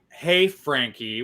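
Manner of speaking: slow, drawn-out hey with mild attitude; understated mock-mad greeting; imitated mad-sounding greeting. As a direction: mimic a pointed, displeased greeting, stretched out. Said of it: "You sound mad".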